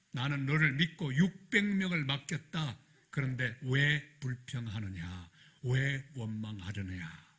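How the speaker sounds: slow, grave voice of the Spirit rebuking; stern rebuke. Retold or imitated. The Holy Spirit rebuking the grumbling young pastor, slow and stern. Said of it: "성령이 마음속에 질책하시는데".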